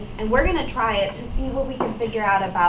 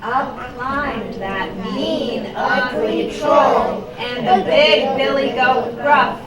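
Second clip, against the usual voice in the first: slow, emphatic storytelling; story read-aloud; 3 semitones higher, 6 dB louder, much slower than usual. A narrator's reading. Teacher narrates the goat fighting the troll, slow storytelling. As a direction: read to children, stretching the action words.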